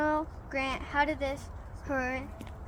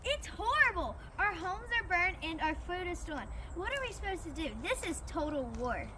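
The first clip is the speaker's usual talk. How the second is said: distressed civilian; 4 semitones higher, 4 dB quieter, faster than usual. Acted.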